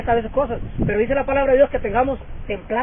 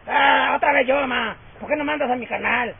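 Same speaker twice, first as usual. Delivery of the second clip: put-on whiny child. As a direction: play the kid groaning at being sent again. Preacher acts a lazy child complaining. (niño quejándose, fuerte y luego refunfuñando)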